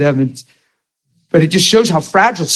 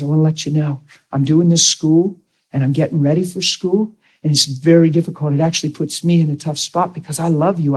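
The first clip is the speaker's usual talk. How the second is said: frank but loving; 3 dB quieter than usual. Retold or imitated. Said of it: "I'll talk like that".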